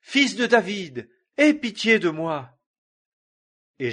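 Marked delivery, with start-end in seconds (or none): 0.0-2.6 loud desperate plea, much higher; pushing louder to be heard despite being hushed; crying out harder. A narrator's reading. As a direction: shout it over the crowd, begging. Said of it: "il criait d'autant plus fort".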